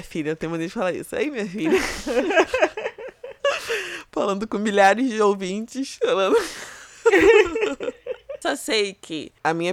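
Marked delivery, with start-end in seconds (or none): 1.8-4.0 long, high laugh. Real, not acted. Catches herself saying "minha filha", high laugh. Amused at her verbal habit. 7.0-8.4 loud, high burst of laughter; laughing. Real, not acted. Amused at addressing thousands of listeners, loud laugh.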